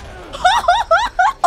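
high startled laugh. Real, not acted. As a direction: burst of high-pitched laughter. Reaction to Pennywise appearing.

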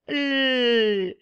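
L sustained with no vowel after it; letter sound. Shown as a demonstration. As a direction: let L hum on its own. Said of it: "¿Cómo es el sonido?".

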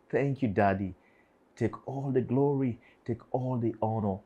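heartfelt prayer of gratitude, addressed to God; thanksgiving prayer. Real, not acted. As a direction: pour out repeated thanks in earnest prayer.

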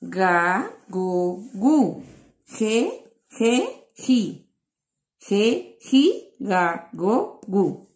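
put-on each syllable chanted separately for children; syllable drill. Shown as a demonstration. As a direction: sound out each syllable clearly, like a teacher drilling the class. Teacher drills syllables aloud.

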